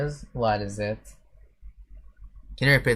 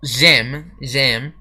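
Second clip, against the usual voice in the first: slower French; 5 dB louder than usual. Shown as a demonstration. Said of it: "Let me try saying it slower".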